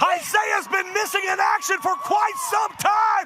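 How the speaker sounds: lucha libre announcer. Real, not acted. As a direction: shout it with amazement. Surprise return in the arena.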